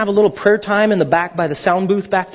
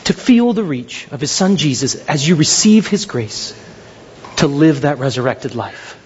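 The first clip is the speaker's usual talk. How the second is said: slow, lower preaching voice with long pauses; solemn altar call; 8 semitones lower than usual. Real, not acted. Preacher addressing congregation with bowed heads, solemn altar call. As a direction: lead them gently and deliberately toward prayer. Returns to solemn closing appeal.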